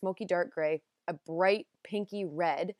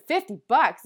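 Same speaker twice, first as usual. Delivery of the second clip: higher, louder incredulous question; shocked disbelief; 5 semitones higher, 7 dB louder than usual. Retold or imitated. Shopper reacting to the saleswoman's price, shocked. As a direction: act out mild sticker shock.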